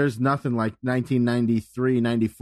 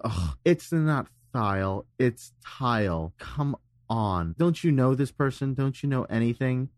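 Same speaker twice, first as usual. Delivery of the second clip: pompous. Retold or imitated. Podcaster mocks his past self correcting others, pompous. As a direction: act out a know-it-all setting people straight. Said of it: "I'd be very pompous".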